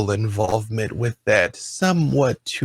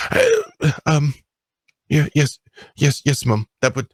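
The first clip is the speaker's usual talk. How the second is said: put-on higher, stammering child's voice; the boy nervously asks his guardian to go fishing; 4 semitones higher, faster than usual. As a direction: trip over the words like a shy ward.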